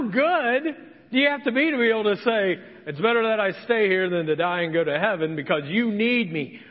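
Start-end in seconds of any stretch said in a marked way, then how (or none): 2.9-6.6 conceited. Pretend. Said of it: "this Paul guy must have been conceited".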